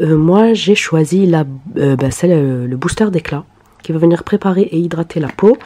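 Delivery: talking through a cold; sick voice. Real, not acted. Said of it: "désolée pour ma voix de canard, je suis malade".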